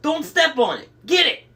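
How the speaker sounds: high, loud urgent shouting; frantic order. A narrator's reading. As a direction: shout orders in a rising panic. Frantic orders during the chaos.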